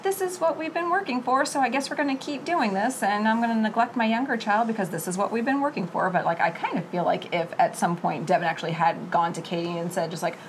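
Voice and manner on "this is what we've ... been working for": a put-on high voice for the mom, dragging it out; mocking the mom. Mocking the mom's resigned excuse, voiced high. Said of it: "her mom was just kinda like".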